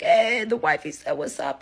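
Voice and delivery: high, loud, drawn-out holler; calling out. Retold or imitated. Man relays wifey's greeting to the bar, calling out. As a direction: imitate shouting a greeting across a crowd. Partner calls out to bar crowd.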